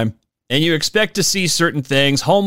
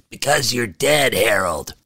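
lower, dry put-on voice dropping on Harold; deadpan reply; 4 semitones lower than usual. Second ghost telling Harold he's dead, low and dry. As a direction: flatly break the news to him.

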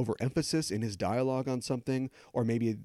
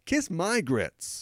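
catchphrase sign-off; 4 semitones higher, much slower than usual. Acted. Reprises the British catchphrase as sign-off.

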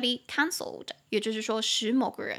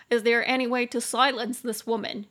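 louder mock complaint; 4 dB louder than usual. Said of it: "你就可以开玩笑说".

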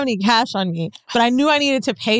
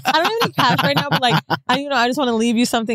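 flustered pleading; faster than usual. Retold or imitated. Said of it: "I sounded so".

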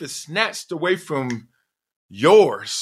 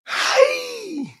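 sudden hey. Real, not acted. Sudden outburst shaking off thoughts.

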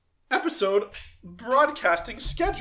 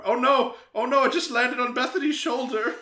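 mock alarm; 5 semitones higher than usual. Pretend bat lands on cohost.

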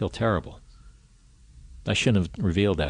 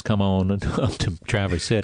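put-on southern accent. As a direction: invite the lovers up, Southern style. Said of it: "I don't know why I did a southern accent".

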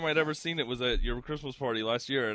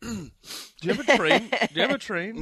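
excited question; 8 semitones higher, 6 dB louder than usual. Real, not acted. Excited question about train.

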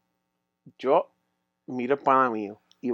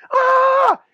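a sudden, very high, loud "ah!" yelp; imitating the friend's terrified scream; mock panicked scream; 6 dB louder than usual. Friend panicking on a bad trip.

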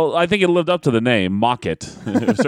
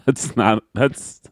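helpless laughter breaking up the words; cracking up; much slower than usual. Real, not acted. Co-host baffled by a bad impression, cracking up.

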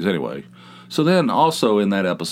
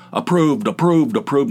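higher, punchy repeated stamping rhythm; mock rubber-stamping clerk; 5 semitones higher, 3 dB louder than usual. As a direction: imitate a clerk stamping each word. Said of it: "he's pounding it on the table".

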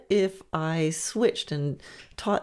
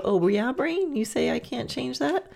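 higher, mock-incredulous comeback; defiant challenge; 7 semitones higher than usual. Talking back to your doubting brain, mock incredulous. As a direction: call the brain's bluff, pitched up. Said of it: "and just go".

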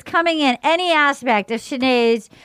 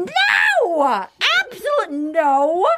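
mock shout; 5 semitones higher, much slower than usual. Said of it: "And he goes".

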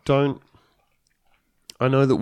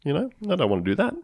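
sarcastic fan voice; 6 semitones higher, 5 dB louder than usual. Retold or imitated. Sarcastic Trump voter voice.

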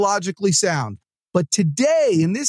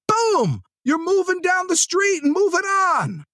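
excited shout; 9 semitones higher than usual. Real, not acted. Pumping up salespeople.

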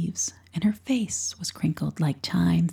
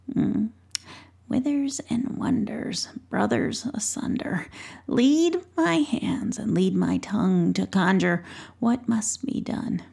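lightly voiced old witch chanting a spell in a whisper; witch's spell; 3 semitones higher than usual. Old witch conjuring at the cabinet, whispered chant. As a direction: murmur the incantation like a crone at her cabinet.

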